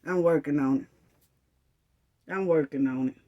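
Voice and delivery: low slow sarcastic brush-off; mock brush-off. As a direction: drag out the excuse with contempt. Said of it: "you know what I'ma say".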